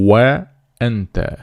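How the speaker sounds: "و انت" with a slow, rounded Arabic w on "و"; Arabic waw sound. Shown as a demonstration. Teacher likening English W to Arabic waw, slow rounded "و انت". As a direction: draw out "و" as a lip-rounded w, never a v, then "انت". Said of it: "وی که در عربی هست".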